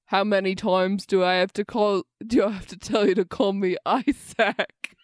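amateur put-on British, slipping on the name; attempted British accent. Client tells waitress to call him Isaac, attempted British accent. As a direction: play the client in makeshift British. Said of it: "my fucking British accent".

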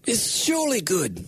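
a light mock European accent. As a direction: read it like the preacher with his accent. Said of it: "you read it in his accent".

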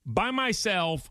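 squeaky high "You know what?", then a fast rush; mock the quarterback deciding alone; mock cocky quarterback. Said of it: "He was like".

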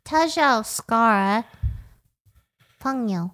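fake foreign language. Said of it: "You are a fake Chinese".

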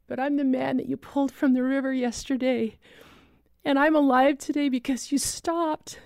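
a lightly voiced grateful survivor; rescued man calling to say thank you; thin emotional voice. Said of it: "thin, emotional voice say".

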